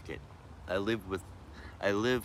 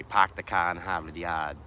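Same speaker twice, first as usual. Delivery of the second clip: Boston accent with dropped R's; thick Boston accent; 4 dB louder than usual. Shown as a demonstration. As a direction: say it in an old-school Boston accent. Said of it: "a wicked thick Boston accent".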